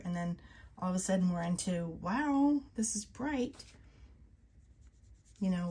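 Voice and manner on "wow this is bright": 1 surprised. Real, not acted. Surprised by bright ink.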